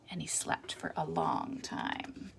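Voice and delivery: slow sleepy. A narrator's reading. Peddler sleeps.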